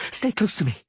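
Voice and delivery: high, loud firm woman's order; commanding sorceress call. Acted. Yennefer keeps Geralt under her shield, loud high order. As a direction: hold him close with your voice.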